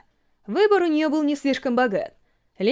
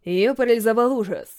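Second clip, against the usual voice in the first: ordinary delivery, nothing marked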